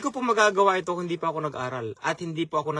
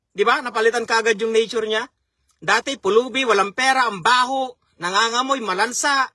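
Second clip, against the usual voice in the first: rising preaching fervour; 4 semitones higher, 3 dB louder than usual. Real, not acted. Preaching climax on prodigal son.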